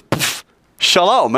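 high, slow, called-out greeting; surprise greeting. Retold or imitated. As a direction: pop in and sing out a playful hello. Acts Jesus suddenly appearing with greeting.

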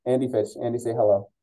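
tunnel-like echo on voice. Real, not acted. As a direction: sounds like talking in a tunnel. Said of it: "my audio sounds like I'm talking through a tunnel".

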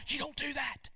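a short shouted warning; preacher shouting the line to the congregation; mock shout. Shown as a demonstration. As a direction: call it out sharply. Preacher contrasts shout and whisper.

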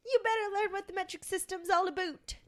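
playful impression of a scolding teacher; quoting the show. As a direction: lecture the kid like a strict TV teacher. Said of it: "one of their scenes says".

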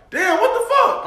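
high-pitched exasperation, not shouted; mild frustration. Acted. Muttering at the car ahead at the ATM, frustrated. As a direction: complain in a high voice, holding back volume. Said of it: "I want them to hit my frustration".

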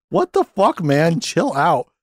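mock exasperation, jumping high at first; indignant kids' protest. Podcaster voicing kids being chewed out, mock indignant protest.

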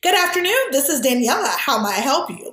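lifted, polished professional greeting; answering a work call, voice pushed up to sound unthreatening; polite phone voice. Retold or imitated. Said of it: "take my voice up a couple octaves".

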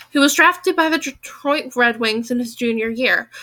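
lively audiobook reading with acted dialogue; story narration. Lawyer tells of arguing with Julia, story narration. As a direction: read the novel aloud, voicing the arguments.

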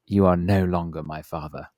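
disown Dad with mock gravity; disowning child. Embarrassed kids to their lost dad, mock-solemn disowning.

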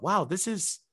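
high, sneering wow; mock scorn. Comedian voicing his scornful thought, high and mocking. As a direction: scoff at people sharing fake news. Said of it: "I thought to myself".

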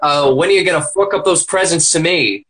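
put-on Italian accent. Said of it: "you've just got an Italian accent".

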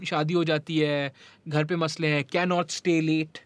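switching between Hindi and English; hindi english mix. Real, not acted. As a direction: Hindi phrases blended into English. Hindi-English mixed talk.

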